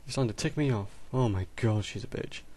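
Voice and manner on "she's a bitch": unvoiced whisper under the breath; whispered aside. Real, not acted. Gamer whispers an insult about his Sim. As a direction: hiss it so she can't hear.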